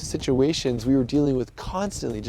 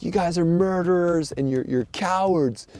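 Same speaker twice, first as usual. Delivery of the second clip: retold yelling; 4 semitones higher than usual. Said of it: "they just start yelling".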